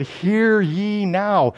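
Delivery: very slow, solemn hear ye now; official proclamation. Shown as a demonstration. Preacher rereading Isaiah's solemn address, slow. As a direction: call it out like a herald. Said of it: "he's gonna address the house of David".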